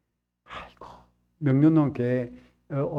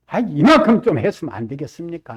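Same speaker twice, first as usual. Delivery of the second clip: fast, louder bargaining plea; mock pleading; 6 dB louder, faster than usual. Believer bargaining with the Lord, fast and pleading. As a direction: haggle with God like a believer.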